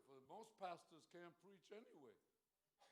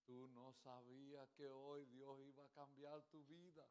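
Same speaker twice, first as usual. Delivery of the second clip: put-on slow, softened old preacher voice; little old pastor; 6 dB quieter than usual. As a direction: imitate an old pastor drawing out each phrase. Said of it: "talk like this little old guy".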